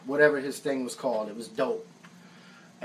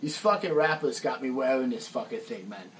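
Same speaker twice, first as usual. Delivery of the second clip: imitating Roy; 4 semitones lower, 4 dB quieter than usual. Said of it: "he goes".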